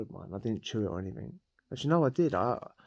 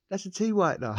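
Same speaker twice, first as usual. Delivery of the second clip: mate's accusation; 10 semitones higher than usual. Retold or imitated. Cellmate insisting the pill was fake, high mock voice. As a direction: voice jumps much higher, mocking the mate.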